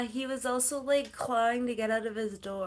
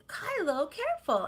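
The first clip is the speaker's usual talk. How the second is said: retold yell; 7 semitones higher than usual. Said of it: "Don't yell at him like that".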